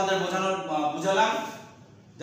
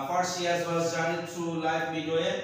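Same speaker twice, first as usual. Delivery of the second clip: slow poem recitation; much slower than usual. Shown as a demonstration. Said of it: "আর alliteration".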